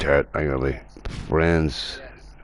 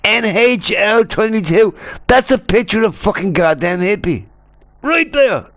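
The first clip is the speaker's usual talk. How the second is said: loud, high excited yelling; excited shout; 11 semitones higher, 6 dB louder than usual. Real, not acted. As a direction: yell it in gleeful disbelief. Yelling at friend's picture.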